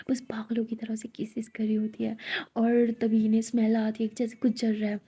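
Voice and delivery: hushed, unvoiced story telling; whispered narration. A narrator's reading. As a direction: whisper the scene like a secret. (धीमी फुसफुसाती कथा)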